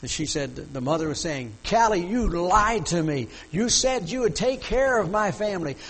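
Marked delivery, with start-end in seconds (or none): 1.7-5.8 raised, higher-pitched accusation; imitated hollering. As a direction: act out the mother's reproachful holler. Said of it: "she was screaming and hollering".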